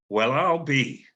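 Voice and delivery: lightly voiced father, surprised and glad; warm Southern drawl. Father recognizing his long-lost son on the phone, warm drawl. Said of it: "His voice exuded warmth".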